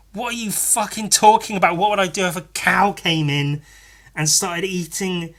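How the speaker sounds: exasperated disbelief; exasperated rant. Real, not acted. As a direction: vent the annoyance. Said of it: "I was so annoyed".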